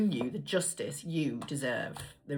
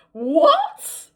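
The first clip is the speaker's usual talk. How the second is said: higher and louder, still giggling; laughing disbelief; 5 semitones higher, 8 dB louder, much slower than usual. Real, not acted. Reader still laughing at her garbled phrase, higher pitch.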